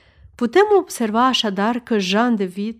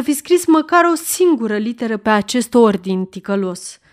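strong voice. Acted. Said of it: "spuse cu voce puternică".

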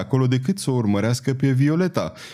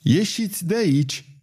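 high-pitched indignant order; understated indignant old nun; 6 semitones higher than usual. A narrator's reading. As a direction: order them out in mild outrage. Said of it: "Marie-Ange era indignată".

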